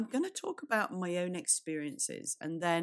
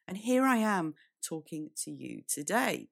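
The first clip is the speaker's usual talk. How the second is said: hoarse, cracking voice; croaky voice. Real, not acted. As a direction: speak through a croaky throat. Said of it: "my croaky voice isn't what matters".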